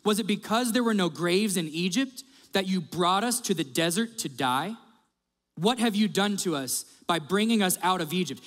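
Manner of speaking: acted-out sarcastic complaint; indignant grumbling read aloud with sarcasm. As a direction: accuse with pointed rhetorical questions. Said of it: "Listen to this sarcasm".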